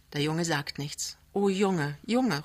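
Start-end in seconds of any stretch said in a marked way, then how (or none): 1.3-2.4 higher, pleading call of his name. A narrator's reading. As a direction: reach for him across the dark. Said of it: "ruft sie". (flehend rufend, höher)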